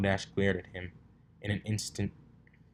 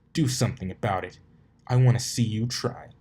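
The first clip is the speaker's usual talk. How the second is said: louder goading dare; taunt; 2 semitones higher, 6 dB louder than usual. Acted. Colt daring Dash to hit, loud taunt. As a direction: egg her on.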